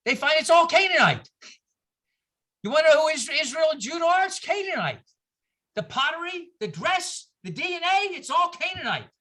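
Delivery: impassioned. Real, not acted. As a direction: proclaim it like a revelation. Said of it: "passionate lecture climax".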